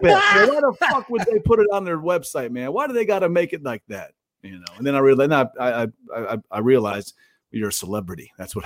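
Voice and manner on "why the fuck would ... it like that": pissed. Retold or imitated. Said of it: "I was so pissed".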